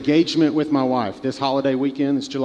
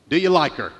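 lightly voiced Jimmy Stewart; 2 semitones higher, 4 dB louder than usual. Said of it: "but he goes".

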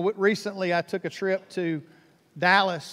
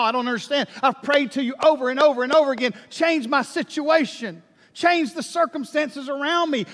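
desperate pleading prayer; 3 semitones higher than usual. Pretend. Imagined desperate prayer about troubles.

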